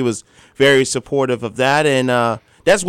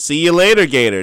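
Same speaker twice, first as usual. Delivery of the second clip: home run call; 3 dB louder than usual. Retold or imitated. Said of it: "That's his home run call".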